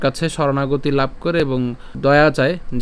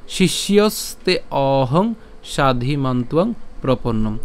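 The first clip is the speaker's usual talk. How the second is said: slow, measured Sanskrit verse recitation; shloka recitation; slower than usual. Shown as a demonstration. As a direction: draw out the long syllables, pausing after each phrase. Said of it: "শ্লোকটি যদি আবার বলি".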